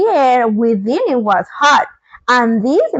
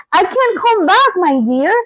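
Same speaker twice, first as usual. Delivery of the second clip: calling from the basket; 5 semitones higher than usual. Acted. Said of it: "called Oz from the basket".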